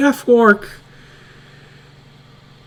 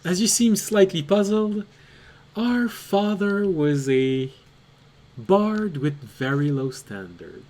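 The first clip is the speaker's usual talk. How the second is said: chirpy half-sister; 4 dB quieter than usual. Acted. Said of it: "She looks at you and says".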